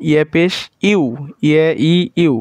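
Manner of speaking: ইয়া পেশ ইউ with ইউ as yu; সঠিক উচ্চারণ ইউ; corrected reading. Shown as a demonstration. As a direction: say ইউ clearly, not উ. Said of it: "উ না".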